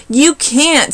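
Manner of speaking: high, loud shout. A narrator's reading. Sammy shouts at Kevin, high and loud. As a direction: shout him down. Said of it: "Sammy shouted".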